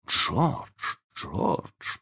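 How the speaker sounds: hushed, urgent call by name; whispering. A narrator's reading. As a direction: call him softly, half-whispered. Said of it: "прошептала миссис Дарлинг".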